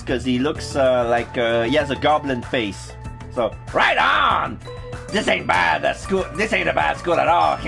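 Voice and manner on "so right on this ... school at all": Beavis voice. Acted. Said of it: "I'm giving him a Beavis voice".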